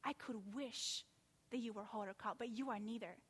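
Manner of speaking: quiet aching regret; pathos. Acted. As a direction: plead gently like a grieving father. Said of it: "I can almost hear the pathos in his voice".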